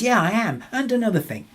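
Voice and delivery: mock venting. Person venting after being named.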